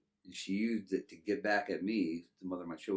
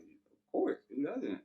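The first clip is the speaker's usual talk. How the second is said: mock-eager high yelp, then settling; eager yes; 7 semitones higher, slower than usual. Teen boy answering a girl's offer, high and eager. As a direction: jump at the offer, overeager teen. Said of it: "I'm like".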